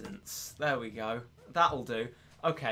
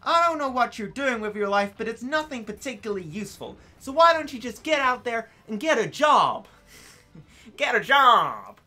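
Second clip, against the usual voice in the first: put-on American white girl; 3 semitones higher than usual. Streamer rants at himself about pointless runs, stereotypical American girl accent. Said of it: "You sound like an American white girl".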